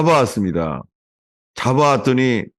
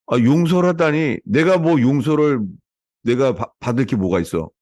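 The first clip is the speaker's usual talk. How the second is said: offended retort. Retold or imitated. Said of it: "대부분 이래요".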